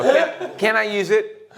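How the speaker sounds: high, slow imitation of asking; drawn-out, high mock question; mock pleading request.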